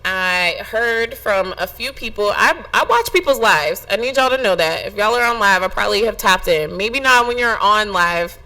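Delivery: usual speaking voice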